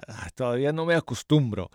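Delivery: talking through new braces. Real, not acted. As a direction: still getting used to braces. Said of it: "Me pusieron los brackets".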